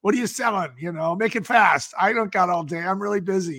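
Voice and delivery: lightly imitated gruff, busy buyer; whiskey voice. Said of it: "he says in this, like, whiskey voice".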